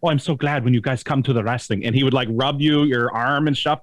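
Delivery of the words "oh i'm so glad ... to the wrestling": put-on low, gushing old-timer; touchy-feely old man. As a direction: imitate an over-friendly old guy greeting visitors. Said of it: "Touchy Feely Guy, because he'd be like".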